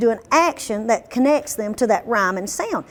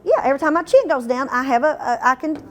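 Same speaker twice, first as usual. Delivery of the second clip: usual speaking voice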